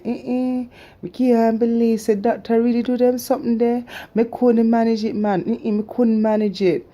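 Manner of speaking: high Jamaican patois, disbelieving; Jamaican accent. Retold or imitated. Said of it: "Me talking in my, um, Jamaican accent".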